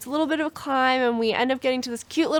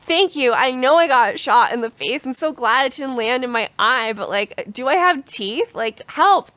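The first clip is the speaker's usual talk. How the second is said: louder, higher frantic plea; panicked; 3 semitones higher, 5 dB louder than usual. Retold or imitated. She begs a stranger for help after getting hit, frantic. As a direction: retell the panic, half-laughing, pushing the voice up.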